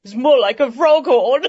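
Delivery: chuckles at her own pun; laughing. Acted. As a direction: laugh through the joke. Princess laughs at own joke.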